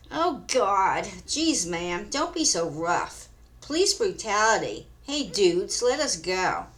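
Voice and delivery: mock screaming girls. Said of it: "the girls start screaming".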